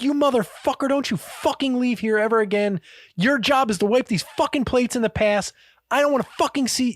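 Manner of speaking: imitated high-pitched scolding; Gordon Ramsay. Chef berates returning plate wiper, high and angry. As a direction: act out a furious chef's dressing-down. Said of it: "Gordon Ramsay's losing his shit".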